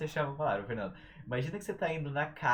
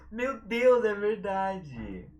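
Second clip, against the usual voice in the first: high, loud, drawn-out exclamation; amazed realization; 7 semitones higher, 8 dB louder, much slower than usual. Real, not acted. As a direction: exclaim it in astonishment, stretching the words. Reacts to listener's meme remark.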